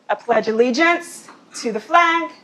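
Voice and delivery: flag. said with a rising question tune at the end; upspeak demo. Shown as a demonstration. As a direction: end the statement on a rise, as if asking. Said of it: "It's what's called upspeak".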